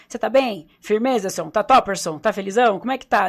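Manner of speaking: loud, bubbly street-slang hello; playful slang greeting. Shown as a demonstration. Showing the podcast host her cheerful greeting, loud and playful. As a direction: greet everyone with upbeat slang and energy. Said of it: "eu faço um linguajar que eu falo".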